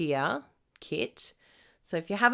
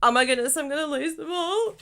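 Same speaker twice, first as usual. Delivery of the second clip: loud, higher mock panic; 8 semitones higher, 7 dB louder than usual. Host mimicking her usual tech panic, mock alarm. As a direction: play your usual flustered self. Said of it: "Normally I'm like".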